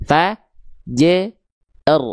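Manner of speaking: "Fa, j, r" in pieces, only r heavy; hanya ro tebal. Shown as a demonstration. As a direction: separate "Fa, j, r", thin j, thick r. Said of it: "Yang tebal cuman huruf ro-nya". ("Fa, j, r" dipenggal, hanya ro tebal)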